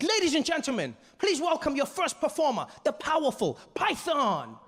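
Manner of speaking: high-pitched showman introduction; excited announcer. Retold or imitated. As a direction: hype up the act, stretching the name. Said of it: "Deng Basan's really excited".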